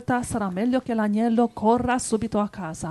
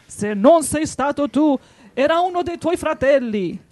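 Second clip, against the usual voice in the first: raised, snarling wolf voice; impatient wolf; 4 semitones higher, 4 dB louder than usual. A narrator's reading. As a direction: snap at the lamb impatiently. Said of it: "sempre più spazientito".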